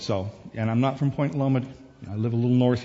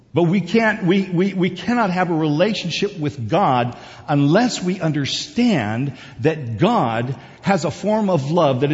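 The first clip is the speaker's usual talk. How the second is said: higher, emphatic preacher voice; impassioned preaching; 6 semitones higher, 6 dB louder than usual. Real, not acted. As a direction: drive the point home to the congregation. Preaching at full force.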